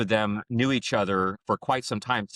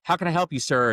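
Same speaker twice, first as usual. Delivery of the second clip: flustered, eager, higher voice; nervous and starstruck; 5 semitones higher, 3 dB louder than usual. Retold or imitated. Wes answering the co-founder's call, flustered and higher. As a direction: stammer politely to an important caller. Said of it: "freaking out".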